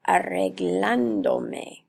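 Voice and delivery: arreglándome said slowly, leaning on the stressed A in -glán-; slow stress demo. Shown as a demonstration. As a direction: draw out arreglándome so the stressed syllable stands out. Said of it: "this A right here would have to have an accent".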